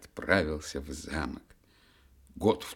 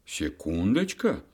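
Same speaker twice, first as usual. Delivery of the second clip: louder indignant outburst; angry Year; 3 semitones higher, 8 dB louder than usual. Acted. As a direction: bristle at the silly news. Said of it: "рассердился год".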